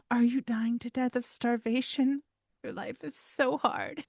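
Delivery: baby talk to a hungry dog, hammed-up; sarcastic coo at the dog; mock sympathy. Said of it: "tendency to be like".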